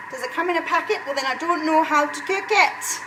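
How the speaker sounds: hint of a Scottish gran, half-hearted; terrible Scottish accent. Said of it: "I have a terrible Scottish accent".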